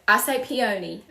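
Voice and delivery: "peony" said pee-OH-nee; own Southern pronunciation. Real, not acted. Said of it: "everybody makes fun of how I say this".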